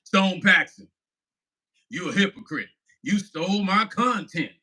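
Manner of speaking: mock the preacher's accusation; a hint of a self-righteous preacher. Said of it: "I'm gonna pretend to be him".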